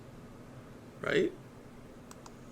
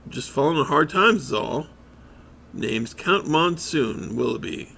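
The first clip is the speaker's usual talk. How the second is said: bum putting on grand airs; mock aristocrat bum; 4 dB louder than usual. Bum introduces himself as a count, hammed-up pride. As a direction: announce the title with pomp.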